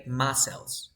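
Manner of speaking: muscles said MUS-sels, with a silent c; pronunciation model. Shown as a demonstration. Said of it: "You say muscles".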